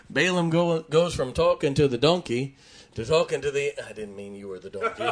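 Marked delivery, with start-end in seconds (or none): 3.9-5.0 laughing. Real, not acted. Preacher's slip, congregation laughs.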